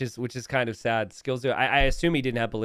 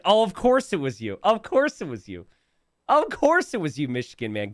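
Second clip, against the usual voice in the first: rising mock outrage with each repeat; mock exasperation, building. Real, not acted. Streamer teasing a chatter who made a meme, mock exasperated and building. Teasing chat member Michigan man.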